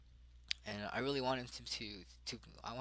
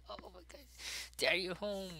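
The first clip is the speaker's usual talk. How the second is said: put-on excited child; 9 semitones higher than usual. Child hugging dad's leg.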